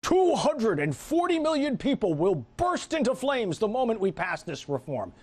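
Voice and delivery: slow, ominous mock announcer of disaster; mock doom forecast. Host mocking the budget office's scare tactics, slow ominous voice. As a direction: ham up the scary prediction, slow. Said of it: "Scare tactics".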